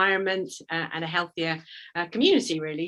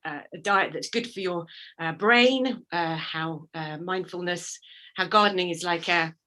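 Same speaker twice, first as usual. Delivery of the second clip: out of breath. Real, not acted. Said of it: "sorry, I'm a bit out of breath".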